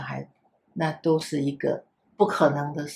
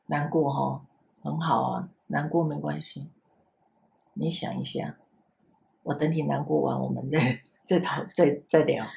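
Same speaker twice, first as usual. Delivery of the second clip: put-on soft, gentle comfort for a crying child; lightly voiced reassurance, easing off to near silence; kindly teacher calming a sad toddler; soothing the child; 4 semitones lower, 4 dB quieter than usual. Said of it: "我现在换一个方式说".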